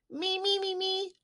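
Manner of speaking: high eager me me me; eager begging. A narrator's reading. Child begging teacher for first hot dog, high and eager. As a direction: beg to be picked first, high and quick. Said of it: "I said".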